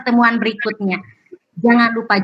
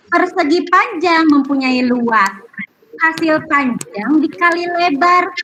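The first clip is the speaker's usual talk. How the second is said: reciting a poem. Acted. Teacher recites a pantun.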